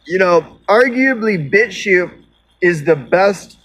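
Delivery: talking around a lit cigarette; words past a cigarette between lips; cigarette in mouth. Real, not acted. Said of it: "let me light my cigarette".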